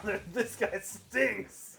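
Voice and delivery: slow, drawn-out laughing jab. Real, not acted. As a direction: laugh through the insult.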